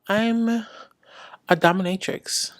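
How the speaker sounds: slow, soft, teasing reveal; sultry reveal. Pretend. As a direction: drop it slowly, like a secret. Teasing reveal of her job.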